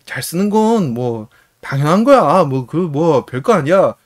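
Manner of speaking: 말끝을 늘이며 느릿하게 잘난 척; 별일 아니라는 듯 높고 느긋하게 으스대기; 으스대는 흉내. Retold or imitated. 뽐내는 인물 대사 흉내. (거들먹거리는 말투)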